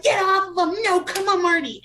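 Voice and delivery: high, loud protesting yell; re-enacted indignant shouting; pitching a fit. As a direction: holler at the ring like an outraged friend. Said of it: "us girls pitched a fit".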